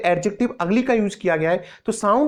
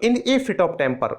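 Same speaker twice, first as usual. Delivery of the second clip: "in a fit of temper" spoken very slowly, each word apart; slow careful demo; much slower than usual. Shown as a demonstration. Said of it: "तो". (धीमे-धीमे साफ़ उच्चारण)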